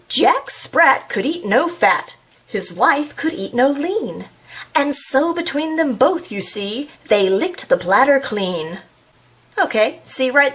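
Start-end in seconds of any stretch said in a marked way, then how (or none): 0.1-8.8 lilting rhyme with stretched words; nursery rhyme recital. Acted. Reader recites Jack Sprat to the audience, lilting storytime delivery. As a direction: read it as a bouncy storytime verse.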